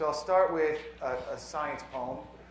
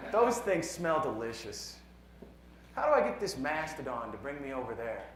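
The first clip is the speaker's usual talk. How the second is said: measured poem reading with deliberate pauses; poetry reading. Acted. Poet reads a science poem to a conference audience, measured poetry reading. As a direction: read it as verse, letting each numbered line land.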